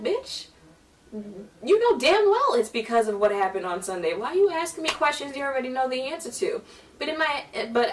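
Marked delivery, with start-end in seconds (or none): 0.0-6.6 sharp high Bitch then fast irritated rant; inner exasperation. Retold or imitated. Girl's inner voice snapping at the choir director, high and fast. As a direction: vent it silently with attitude. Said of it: "in my head, I was like".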